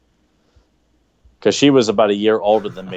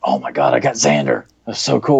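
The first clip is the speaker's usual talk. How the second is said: put-on kid's excitement; 6 semitones lower than usual. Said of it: "I was like".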